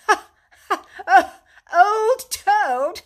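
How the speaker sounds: loud, high laughter through the words; hearty laugh. A narrator's reading. Rat laughs heartily at Mole's question about Toad. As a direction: laugh off the very idea. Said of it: "laughing heartily".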